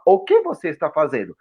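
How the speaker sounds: "O que você está fazendo" with every word fully sounded; textbook enunciation. Shown as a demonstration. Guest plays a student talking to an American, textbook enunciation. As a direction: stiffly correct learner's sentence. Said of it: "você vai falar dessa forma".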